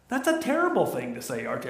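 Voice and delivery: lightly voiced hurt wife; Edith Bunker voice. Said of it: "I wish I could do her voice".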